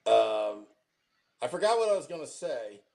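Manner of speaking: low ventriloquist talk, lips barely moving. Pretend. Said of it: "just talk like a ventriloquist".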